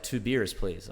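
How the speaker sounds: 'beers' with an American R; put-on American. Aussie ordering drinks abroad, American accent on 'beers'. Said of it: "So now I'm just like".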